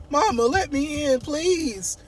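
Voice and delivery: high, wailing mock plea; hammed-up desperate begging; locked-out daughter calling. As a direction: call "Mama" through the door, pitch climbing. Eva begging at the door.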